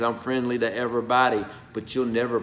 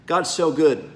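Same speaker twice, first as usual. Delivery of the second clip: choked-up laugh; 5 semitones higher, 4 dB louder than usual. Real, not acted. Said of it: "I'm getting choked up".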